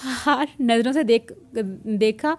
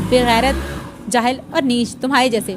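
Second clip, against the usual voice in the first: louder, spitting each insult; angry insults; 4 dB louder than usual. Acted. Husband rising to his feet, insulting his wife, louder and angry. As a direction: hurl the insults at him in anger. Insults spat in heated quarrel.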